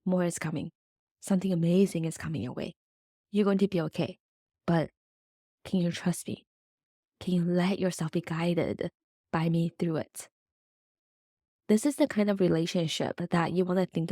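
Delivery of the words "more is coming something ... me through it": a hushed, tender cosmic mother; soothing Mother Universe. Retold or imitated. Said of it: "the Mother Universe is like".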